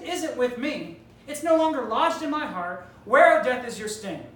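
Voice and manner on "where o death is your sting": loud WHERE flung at death; shouted dare, dropping at the end; defiant shout. Acted. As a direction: throw the challenge at death.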